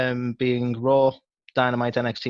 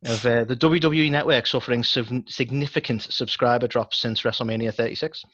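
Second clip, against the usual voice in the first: news anchor. Acted. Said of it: "let's do the news anchor thing".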